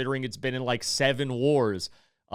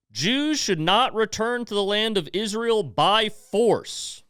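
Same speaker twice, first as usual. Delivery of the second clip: careful slow reading; 6 semitones higher, slower than usual. Real, not acted. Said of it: "I'm gonna read it".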